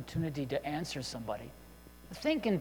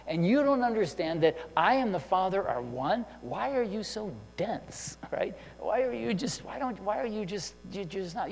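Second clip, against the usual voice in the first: exasperated; 3 semitones higher, 4 dB louder than usual. Retold or imitated. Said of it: "He didn't say".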